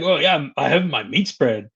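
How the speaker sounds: mildly excited pretend brag; a touch of playful enthusiasm, easing off at the end; mock excited. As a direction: act pleased about your rations. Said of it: "I'd be all excited".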